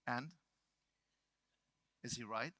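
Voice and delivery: low, soft question after a pause; calm challenge. Retold or imitated. Lead trainer to ranting speaker, calm challenge. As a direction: let it land quietly, unhurried.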